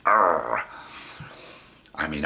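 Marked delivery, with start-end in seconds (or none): 0.1-0.6 short low-key biting snarl; chomping growl. Shown as a demonstration. Man showing how he chomped, mock growl. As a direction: growl as if clamping teeth down. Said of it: "I just went".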